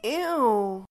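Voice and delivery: grossed-out groan; disgusted ew. Acted. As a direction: say it like something stinks. Disgusted reply.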